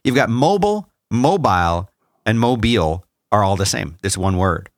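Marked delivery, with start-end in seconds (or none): 0.0-3.4 mobile said as MOH-bul, MOH-bile, then moh-BEEL; three pronunciations. Shown as a demonstration. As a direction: run through each way to say mobile. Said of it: "'Cause it's spelled".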